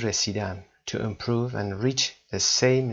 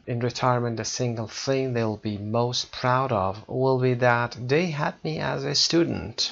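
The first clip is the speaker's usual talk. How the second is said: slow, careful reading-aloud of the English passage; slow text reading; much slower than usual. Acted. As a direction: read each phrase slowly and clearly for learners.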